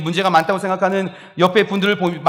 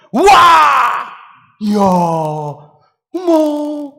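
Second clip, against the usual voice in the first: high, loud staged wows; cued audience gasps; 8 semitones higher, 7 dB louder, slower than usual. Retold or imitated. Studio audience women exclaiming on the producer's cue, loud and high. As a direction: cheer on cue like a studio crowd. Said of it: "감탄하는 거예요".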